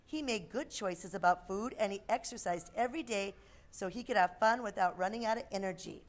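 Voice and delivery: put-on lively storybook voice for kids; reading to children. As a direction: read a picture book aloud.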